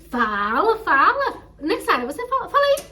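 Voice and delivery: loud, high, pressing friend egging her on; urgent urging. Retold or imitated. Amiga insistindo para ela falar. (amiga insistindo, alto e agudo)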